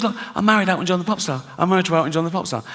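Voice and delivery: rushed, quickly gushing wife; proud wife. Retold or imitated. A pop star's proud wife boasting about her husband, rushed and gushing. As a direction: gush it out fast and proud. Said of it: "She goes".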